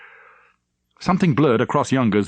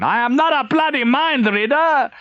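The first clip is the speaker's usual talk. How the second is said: a livid admiral demanding answers; angry admiral; 4 dB louder than usual. Acted. Admiral raging.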